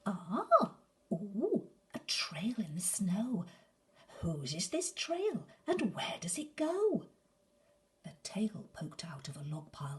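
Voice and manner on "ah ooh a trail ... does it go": high whispered wonder; little monster tiptoeing, curious; curious child. Acted. Gruffalo's child finds a trail in the snow, whispering.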